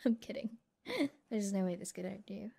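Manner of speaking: teasing laugh. Acted. Teasing the trapped pilot.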